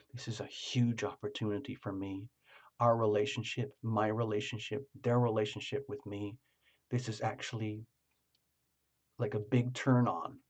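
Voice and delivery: very quietly. Retold or imitated. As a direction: keep it to yourself, barely audible. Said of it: "very quietly going like this".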